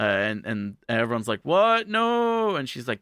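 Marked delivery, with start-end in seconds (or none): 1.4-2.6 high squeaky gasp of disbelief, a little louder; jolted bystanders who can't believe it; mock shocked disbelief. Bank customers react to robbery.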